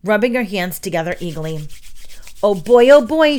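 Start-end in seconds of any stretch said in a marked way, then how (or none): 2.4-3.4 loud, high gleeful outburst; giddy, raised voice; excited chatter. A narrator's reading. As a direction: burst out in eager anticipation. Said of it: "she chattered".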